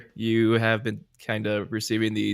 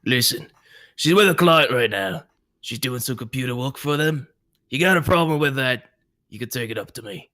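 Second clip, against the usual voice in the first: raised, irritated warning; borderline angry Boris; 3 semitones higher than usual. Acted. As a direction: push back hard on the intruder. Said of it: "he will say, borderline angry".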